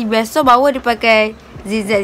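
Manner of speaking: speaking with lip held open; finger pulling lip down. Real, not acted. Seen 1: one finger pulls lower lip down, showing braces, while talking.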